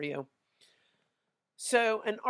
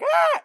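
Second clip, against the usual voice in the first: short, high, loud scream; a sudden "ah!" shrieked high to re-enact the fright; retold startled scream; 11 dB louder than usual. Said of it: "I started screaming".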